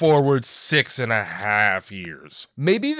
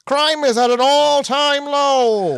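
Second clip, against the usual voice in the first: put-on old-timey voice; 5 semitones higher than usual. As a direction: read it like an old announcer. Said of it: "I love that you're doing the old-timey voice".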